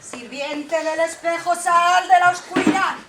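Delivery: commanding queen. Acted. Queen summons mirror spirit.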